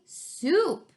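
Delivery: mock snarl. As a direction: snap the word out like a cranky critter. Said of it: "snarled the scruffy varmint".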